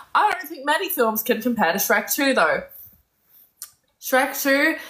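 earnest excited rant, half laughing at yourself; passionate rave. Real, not acted. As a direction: gush like a true fan defending a film. Passionate rant praising Shrek two.

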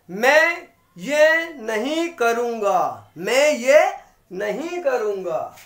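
slow, firm नहीं करूंगा with weight on the refusal; stress on नहीं. Shown as a demonstration. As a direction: lean hard on नहीं in नहीं करूंगा. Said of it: "जब हमें not पर स्ट्रेस करना होता है". (नहीं पर ज़ोर देकर धीरे बोलना)

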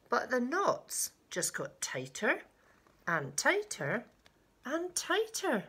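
rhythmic, lively picture-book reading; storyteller with swooping emphasis; story narration. A narrator's reading. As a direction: build the tension, climbing high on the last phrase. Reads a picture book aloud.

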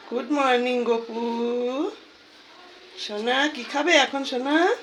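talking to a dog. Real, not acted. Cooing to pet Gopu.

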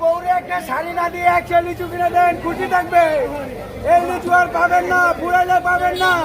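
market hawker calling out; street vendor. Real, not acted. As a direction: pitch the lychees to passing buyers.

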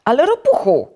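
loud, high objection; protesting. A narrator's reading. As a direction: cry out in protest. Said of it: "zaprotestował Żabek".

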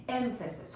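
EMphasis, first syllable stressed, said softly. Shown as a demonstration. Teacher repeating the word after explaining it, first-syllable stress on emphasis. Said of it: "Stress is at the beginning of this word".

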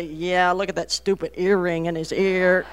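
muttered mock disdain for the earring; unspoken disapproval. Mom wanting to criticize the boy's earring, mildly scornful. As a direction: imitate a mom's withheld scorn. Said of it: "I wanna say".

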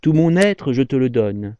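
slow, drawn-out verse reading; poem recitation. Acted. Presenter reading a love poem aloud, slowly recited. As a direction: recite it phrase by phrase with pauses between lines.

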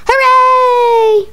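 loud happy cheer; cheering shout. Acted. Kids excused cheering.

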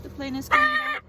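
quick high excited alarm. Real, not acted. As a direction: warn that the plane returns. Alarm as plane returns.

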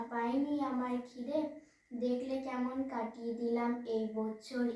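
measured verse recital, lines lifted at the ends; poem recitation. Acted. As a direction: recite the poem to an audience, phrase by phrase. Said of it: "আমি একটি কবিতা আবৃত্তি করে শোনাবো".

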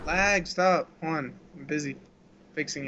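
lagging robotic crackle. Real, not acted. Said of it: "You sound like an old robot man".

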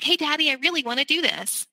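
a hint of a child asking her father for permission; mock childlike plea; little girl asking daddy. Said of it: "like I was approaching my father".

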